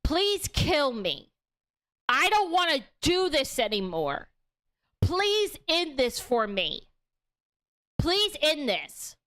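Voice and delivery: pleading. Retold or imitated. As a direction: drag it out like a weary, hopeless plea. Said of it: "Nikki is basically pleading to him".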